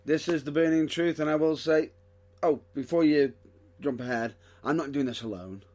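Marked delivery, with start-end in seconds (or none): 0.0-1.2 show announcer. Acted.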